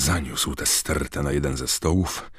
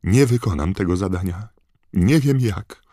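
despairing outburst; 6 semitones higher, 6 dB louder than usual. A narrator's reading. Harry despairing.

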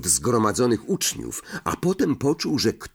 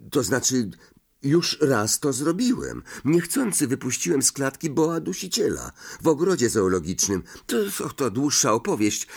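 higher, youthful-sounding explanation with stumbles; Harry, flustered explaining; 3 semitones higher than usual. Acted. Harry admits an old incident to Ron, flustered and higher. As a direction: explain yourself in a raised pitch.

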